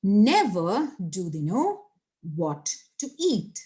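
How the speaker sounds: Never stretched and stressed, slow sentence; emphatic inversion. Shown as a demonstration. Teacher showing the inverted form, slow stress on Never. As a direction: hit Never, then go slowly word by word. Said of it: "That becomes".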